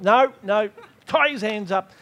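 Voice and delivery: firm refusal. Acted. Master refuses prisoner's request.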